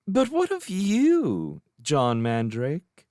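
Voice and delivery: put-on high, slow, honeyed young woman's voice; sugar-coat the question, teasing; sweetly. A narrator's reading. Jane to the young magician at a party, sweetly. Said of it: "Jane Farrar said sweetly".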